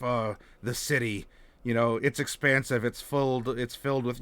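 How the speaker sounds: low, quiet hard-boiled inner monologue; noir detective. Shown as a demonstration. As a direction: brood over the city like a noir detective. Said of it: "like, a noir detective".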